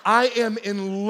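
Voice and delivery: slow, loud, laughing; laughing declaration. Real, not acted. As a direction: proclaim it through laughter. Comic declaration of puppy love.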